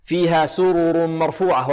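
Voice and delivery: سرر recited with both r's fully vowelled; measured chant, nothing snatched in سرر; full vowels. Shown as a demonstration. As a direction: sound each r of سرر completely. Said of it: "الاتيان بها كاملة دون اختلاس".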